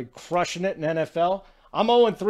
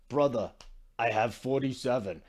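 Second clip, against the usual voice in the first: attempted Serbian-style accent, slightly lower; badly faked Jokic accent, dropping lower; 4 semitones lower, 4 dB quieter than usual. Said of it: "that's the worst Jokic accent ever".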